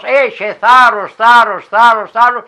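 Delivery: very slow, loud, high encouragement; angels encouraging. Acted. Angels urge the girl in the woods, very slow and loud. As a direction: stretch each word out like a blessing. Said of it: "Εσείς μου λέγατε πάντοτε".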